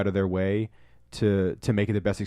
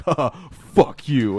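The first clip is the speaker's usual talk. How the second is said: mock Todd laugh-off; 3 semitones higher, 4 dB louder, much slower than usual. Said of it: "He'd just be like".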